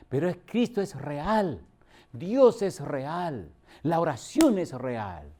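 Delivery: each "real" landed slowly with weight; slow emphatic preaching. Real, not acted. Preacher insisting to the congregation, slow and weighty. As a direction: drive home that it is real, word by word.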